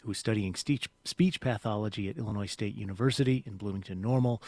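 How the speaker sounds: steady public radio intro; radio host read. Acted. Host welcoming radio listeners back, steady on-air read.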